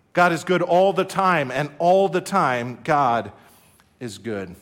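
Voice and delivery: preacher's rhythmic call, dropping at the end; call and response. Acted. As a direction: lead the church chant.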